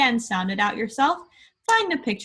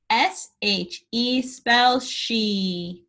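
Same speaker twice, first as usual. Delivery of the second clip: letters spelt out slowly; slow spelling; much slower than usual. Shown as a demonstration. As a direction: spell each letter with a pause. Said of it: "spell it".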